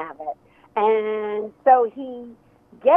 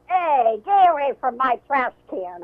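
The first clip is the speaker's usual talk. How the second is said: half-hearted grouch voice, a bit raised; Oscar the Grouch; 3 semitones higher than usual. Retold or imitated. Author admittedly failing to copy the puppet in the trash can, grouchy. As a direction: lightly attempt a grouchy puppet telling someone off. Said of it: "'cause I can't copy that voice".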